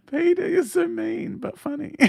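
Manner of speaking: high-pitched words through laughter; laughing. Real, not acted. Host scolds Peter for his joke, laughing. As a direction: tease back while cracking up.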